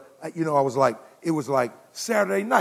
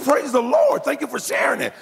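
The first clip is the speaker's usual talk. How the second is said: shouted praise; 7 semitones higher than usual. Retold or imitated. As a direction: burst out praising the Lord. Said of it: "I shouted".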